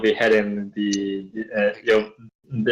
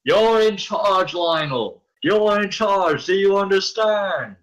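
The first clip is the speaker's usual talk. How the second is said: urgent orders; 9 semitones higher than usual. Acted. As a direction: drill it into him. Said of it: "I'm like".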